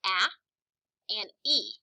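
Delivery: short A alone, as in happy; isolated vowel sound. Shown as a demonstration. Teacher showing happy's first vowel sound, isolated. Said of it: "happy has".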